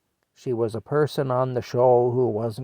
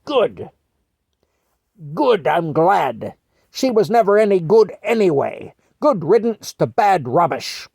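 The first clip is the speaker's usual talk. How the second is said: Mattie gloating; 6 semitones higher, 6 dB louder than usual. Retold or imitated. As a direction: gloat like a prim British granny over the telly. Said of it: "And she says".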